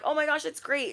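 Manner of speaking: high-pitched gushing congratulations; delighted reply. Acted. Replying to store lady's good news, delighted. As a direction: react high and thrilled.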